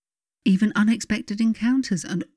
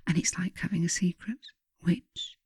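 breathy whisper, sharing a secret; 6 dB quieter than usual. Acted. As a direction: lean in and whisper it. Confiding a secret.

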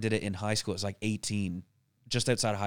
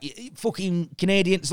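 parents' grumbling; 8 semitones higher than usual. Acted. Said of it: "they don't sound like that".

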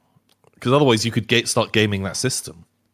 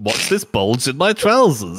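slow, higher-pitched weird goblin; Nubbers; 4 semitones higher, 4 dB louder than usual. Pretend. Goblin posing a rude riddle, slow high mock voice. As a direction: drag out the goblin's teasing riddle. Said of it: "like a weird goblin".

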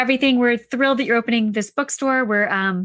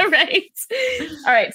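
coughing, choking a little; talking through a choke; choking on a drink; 4 semitones higher than usual. Real, not acted. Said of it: "Sorry, I'm, like, choking over here".

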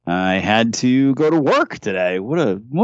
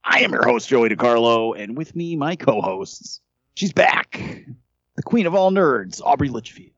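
higher-pitched, announcer-style episode opening; podcast host intro; 3 semitones higher than usual. Acted. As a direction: introduce the show and co-hosts like an announcer.

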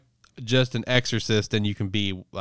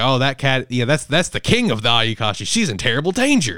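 mock panicked grandpa; 3 semitones higher, 6 dB louder than usual. Grandpa warning Matsuri about the cat king, alarmed. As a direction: play the grandpa freaking out over the cat. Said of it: "his grandpa freaks out".

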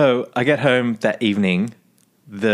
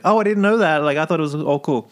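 playing up an Australian accent, higher, innocent; thickened Australian accent; 4 semitones higher than usual. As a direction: lay the Australian accent on thick to seem clueless. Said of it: "thickened up the accent".

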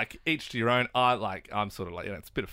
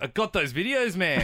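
laughing taunt; 6 semitones higher, 3 dB louder than usual. Retold or imitated. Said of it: "And he was like".

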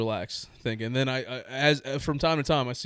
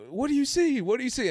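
mom's insistent voice; 12 semitones higher than usual. Retold or imitated. Mom voiced over phone.

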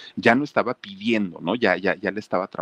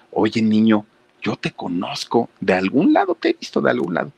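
put-on a man half-sure he knows the kid; mock-puzzled stranger, rising pitch; intrigued stranger; 2 semitones higher, 4 dB louder than usual. Stranger recognizes the boy.

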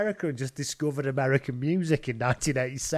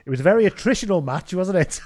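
mock interviewer; 3 semitones higher, 4 dB louder than usual. Acting the oblivious interviewer's next question.

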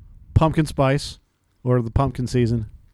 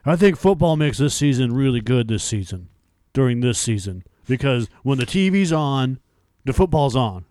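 put-on excited kid rambling; 2 semitones higher, 3 dB louder than usual. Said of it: "You said fuck all in that whole thing".

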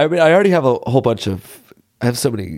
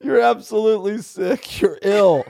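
laughing; 8 semitones higher than usual. Real, not acted. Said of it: "friend teasing".

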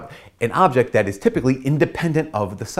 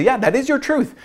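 mock agreeable.

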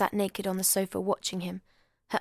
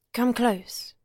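put-on drunken whisper; 3 semitones higher, 3 dB louder than usual. A narrator's reading. Drunk Hector pulling his wife close, whispering. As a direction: murmur it close up.

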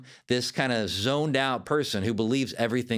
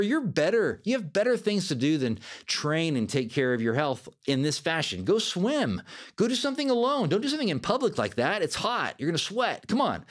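higher, lightly mocking coaxing voice; coaxing inner critic; 3 semitones higher than usual. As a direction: tempt yourself out of it, mock coaxing. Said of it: "It can say those kinds of things".

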